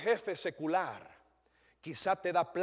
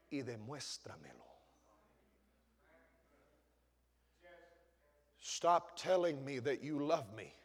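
soft Jesus; 3 semitones lower, 5 dB quieter than usual. Acted. Jesus urging Peter to show his love, hushed. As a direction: speak it close, almost under the breath. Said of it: "le estaba tratando de decir Jesús".

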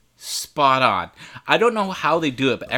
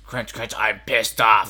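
angry jelly bean; 4 semitones lower, slower than usual. Acted. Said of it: "the jelly bean says".

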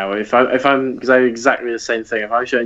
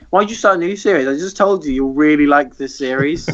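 exasperated self; 5 semitones higher than usual. Retold or imitated. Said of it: "And it's like".

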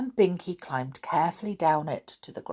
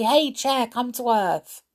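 loud, higher call to the chair; 6 semitones higher, 4 dB louder than usual. Acted. Molly calls up to the wishing chair, loud and high. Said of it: "shouted Molly".

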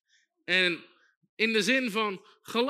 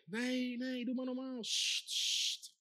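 softer, lowered voice of a crowd shushing someone; hushing shush; 8 dB quieter, slower than usual. Acted. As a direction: hush him up under your breath.

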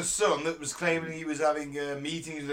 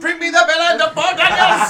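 loud, high Arabic-accented shout; 11 semitones higher, 14 dB louder than usual. Shown as a demonstration. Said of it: "Can you do it in an Arabic accent and shouting?".

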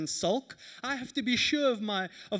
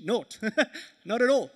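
loud mock rejection; 9 dB louder than usual. Girl rejecting him publicly.

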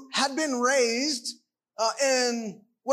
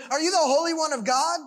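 mocking question; 3 semitones higher, faster than usual. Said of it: "imagine that he's mocking him here".

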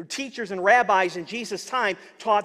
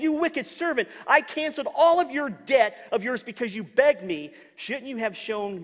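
high, loud rebuke; angry master; 5 semitones higher, 4 dB louder than usual. Acted. Master calling the servant back, loud scolding rebuke.

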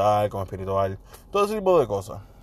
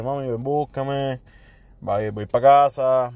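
agotado; slower than usual. Retold or imitated. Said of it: "le dije".

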